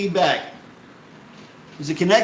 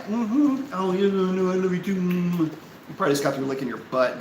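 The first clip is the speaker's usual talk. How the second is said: pet talk; 2 semitones lower, 4 dB quieter than usual. Real, not acted. Cooing to his pet.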